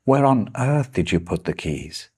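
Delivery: a touch of irritation, pushing on where; mildly annoyed demand about lost keys; slightly angry. Shown as a demonstration. Teacher showing the idiom to students, mildly irritated. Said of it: "in a slightly angry way".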